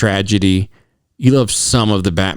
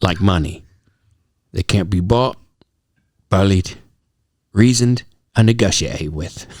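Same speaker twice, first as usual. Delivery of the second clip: Michael Caine impression; 3 semitones lower than usual. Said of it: "read this quote in your Michael Caine".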